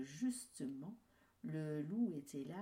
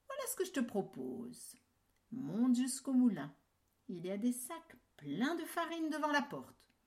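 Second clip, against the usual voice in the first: higher, louder scheming fox; sly fox; 4 semitones higher, 5 dB louder than usual. Acted. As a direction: pitch the trick slyly. Fox proposes trick.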